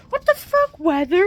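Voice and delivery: high, loud, furious shout; real furious shout at the storm; yelling at the weather. Real, not acted. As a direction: scream it up at the sky. Yelling at the blizzard.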